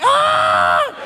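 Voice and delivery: high startled yelp of panic; panicked yelp. Retold or imitated. Comic caught on stage, a high panicked yelp. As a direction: yelp like you just blurted the worst line. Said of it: "and I'm like".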